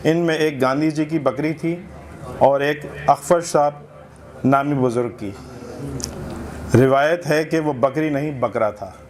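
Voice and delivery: measured literary reading aloud; humorous essay recitation. Acted. Reader presenting a satirical essay to a literary gathering, recitation. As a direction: read it out for a listening audience.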